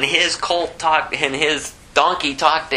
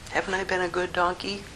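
soft, higher pleading donkey; a gentle hint of a hurt donkey; poor donkey; 5 semitones higher, 7 dB quieter than usual. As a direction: quietly plead as the faithful animal. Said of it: "you could just hear the heart of this poor animal".

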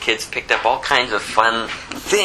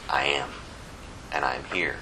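softer and lower, gentle reassurance; tender comfort; 9 semitones lower, 10 dB quieter than usual. Acted. Preacher voicing Jesus comforting disciples, soft and tender. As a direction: speak as if calming a frightened child.

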